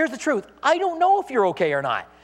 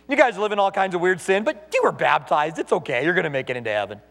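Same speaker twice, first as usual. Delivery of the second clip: lightly voiced lenient pastor, low and easygoing; a hint of a pastor excusing everyone in a lowered voice; comforting pastor; 4 semitones lower than usual. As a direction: lightly act a pastor soothing his flock, dropping lower on the reassurances. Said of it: "when he comforts people in their apostasy".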